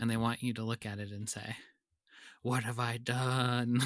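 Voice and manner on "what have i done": slow, drawn-out mock remorse; mock horror. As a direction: lament it slowly, hammed-up. Acting out a horrified child viewer.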